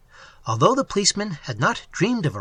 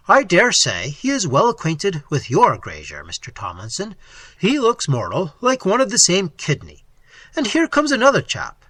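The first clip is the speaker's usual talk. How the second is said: chatty police officer; 3 semitones higher, 4 dB louder than usual. Acted. Officer remarking to his prisoner on passing riders, lightly voiced chatty lawman.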